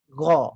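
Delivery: GHA full and dark, like 'gho'. Shown as a demonstration. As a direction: lift the tongue root for gha. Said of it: "sepatutnya ghin di atas". (gha tebal, pangkal lidah naik)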